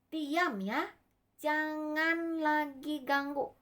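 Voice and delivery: measured, insistent order; firm command. Acted. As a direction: hush the storm firmly, drawing it out. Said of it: "Tuhan Yesusnya teriak".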